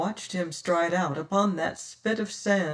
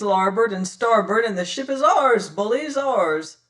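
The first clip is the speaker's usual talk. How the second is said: loud, higher rallying captain; rousing pirate captain; 4 semitones higher, 5 dB louder than usual. Acted. Captain rallying his pirates for a night boarding, loud. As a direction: rouse the crew for the attack.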